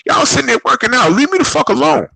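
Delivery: high exasperated leave-me-alone rant; exasperated outburst. Real, not acted. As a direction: pitch shoots way up, fed up. Ranting at gym strangers.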